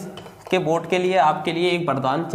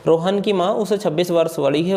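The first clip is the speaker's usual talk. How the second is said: reading the question aloud. Shown as a demonstration. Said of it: "पढ़ के दिखा, सुनाते हैं।".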